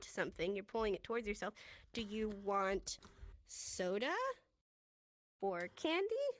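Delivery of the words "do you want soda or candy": slow, clear question with a rise on candy; slow demo question. Shown as a demonstration. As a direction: spell the question out slowly for learners. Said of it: "And then tilt your head".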